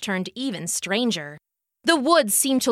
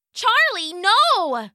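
stern call; 7 semitones higher, slower than usual. Acted. Owner scolds dog.

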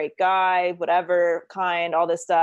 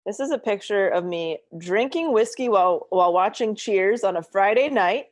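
choppy call audio; breaking up on the line; bluetooth cutting out; 3 semitones higher than usual. Real, not acted. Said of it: "you're cutting out".

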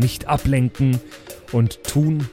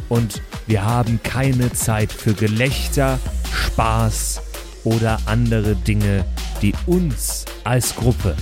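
schoolteacher. Acted. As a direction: lecture them with deliberate pauses. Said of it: "du hörst dich an wie alle meine Mittelschullehrer gemeinsam". (eindringlicher Lehrer)

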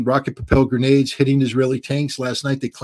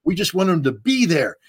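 higher-pitched imitation of flustered objection; mock freak-out; 5 semitones higher than usual. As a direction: protest as if freaking out, half in earnest. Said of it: "the Israelis were freaking out".

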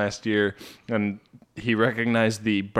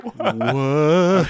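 shocked what; 4 semitones higher, 4 dB louder than usual. Retold or imitated. Stunned reaction to mafia story.

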